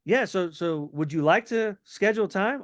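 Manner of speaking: lightly surprised, casual booking question; mild surprise. Shown as a demonstration. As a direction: act a little caught off guard. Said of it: "Almost like you're surprised".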